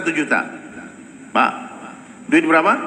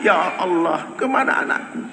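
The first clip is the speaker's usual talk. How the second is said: breathy, rising wail of a grieving father; Yakub's plea; 6 semitones higher, 4 dB quieter than usual. Retold or imitated. Yakub crying to God for his lost son, high breathy wail. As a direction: cry out high, half-whispered, searching.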